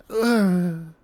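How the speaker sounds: little deflated death grunt; imitated death grunt. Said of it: "she just kinda goes".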